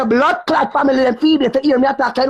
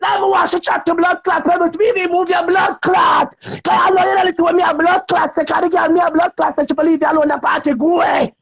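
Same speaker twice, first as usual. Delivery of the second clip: high, angry yelling rant; 3 semitones higher than usual. Real, not acted. Telling him off on the live, angry shouting. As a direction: let the anger pour out.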